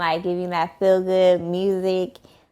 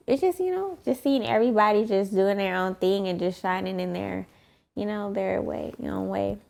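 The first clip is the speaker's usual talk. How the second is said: a bit tipsy, words softening; 4 dB quieter than usual. Real, not acted. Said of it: "I'm trying to tipsy, y'all".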